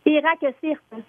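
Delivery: Carey Price said backwards as Irak Sirte; backwards speech. Shown as a demonstration. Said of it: "Comment tu fais pour parler à l'envers?".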